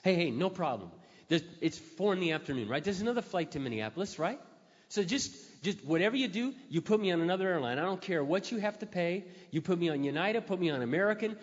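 loud, high forced cheer; straining to stay positive with the agent. Retold or imitated. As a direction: keep it upbeat through gritted teeth. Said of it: "trying to be Mister Positive".

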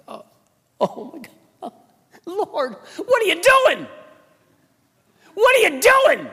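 high, loud disbelieving cry to God; exasperated cry. Retold or imitated. Pastor crying out to God at a second broken ankle, high and loud. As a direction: throw it up to heaven in mock despair. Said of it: "I'm like".

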